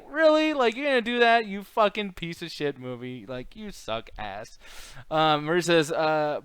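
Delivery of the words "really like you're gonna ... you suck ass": mock outrage. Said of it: "I was like".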